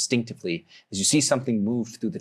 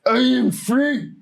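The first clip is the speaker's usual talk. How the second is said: proud defiant orc; 3 dB louder than usual. Acted. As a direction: proclaim freedom defiantly. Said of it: "one of them goes".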